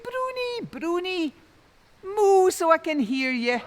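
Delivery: high, loud calling across the hills; shouting. A narrator's reading. Tom calls out for the lost cow, shouting high. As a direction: call the cow from far off. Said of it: "he shouts out".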